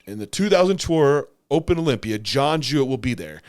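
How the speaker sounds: mild impression of the head judge's reporter voice; news reporter voice. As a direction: announce it like a news anchor. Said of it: "Like, this is how he talks".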